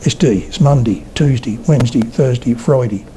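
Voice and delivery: Suffolk accent, day shrunk to "dee"; Suffolk, mouth barely open. Shown as a demonstration. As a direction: keep the mouth narrow like a Suffolk speaker. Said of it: "I don't open my mouth wide enough to say day".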